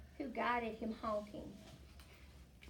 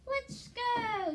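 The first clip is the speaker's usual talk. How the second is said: high, loud eager call; a young wolf calling to lead the pack, loud; eager shout; 13 semitones higher, 6 dB louder than usual. Acted. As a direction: shout it out like a keen pup. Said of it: "shouted Wilf".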